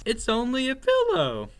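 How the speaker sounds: pooh-pooh the scare, high and loud; dismissive reassurance. A narrator's reading. Sister mouse points out the pillow to her brother, chiding.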